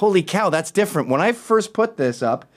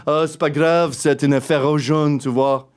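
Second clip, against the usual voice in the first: French speaker. Retold or imitated. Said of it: "in French".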